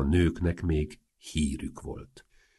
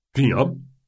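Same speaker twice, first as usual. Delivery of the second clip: louder, higher nasal creak; creaky nasal voice; 7 semitones higher, 5 dB louder than usual. A narrator's reading. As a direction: creak it through the nose, annoyed at the interruption. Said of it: "kezdte Antas recsegő orhangon".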